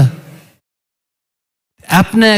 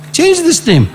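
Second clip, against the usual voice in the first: emphatic demand; 11 semitones higher than usual. Real, not acted. Orator demanding a name change.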